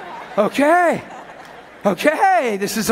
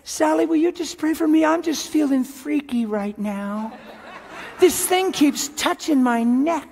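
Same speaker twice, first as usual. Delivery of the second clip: whiny prayer request; 5 semitones higher than usual. Retold or imitated. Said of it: "call on her little cell phone and say".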